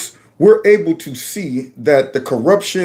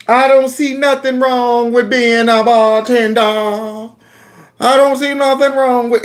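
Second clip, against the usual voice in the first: mock AOC accent; 6 semitones higher than usual. Mocking AOC's put-on accent among black voters, drawled. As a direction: drag it out like a put-on church accent. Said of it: "Remember A O C did that mess".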